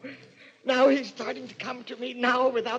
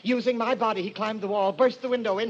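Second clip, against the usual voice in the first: fanatical fervour; 3 semitones higher than usual. Acted. Madman describes possession.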